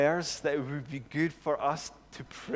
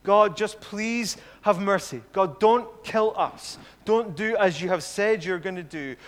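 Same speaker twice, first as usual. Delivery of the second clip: pleading prayer; 5 dB louder than usual. Acted. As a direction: beg God emphatically, as Moses praying. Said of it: "his prayer is basically this".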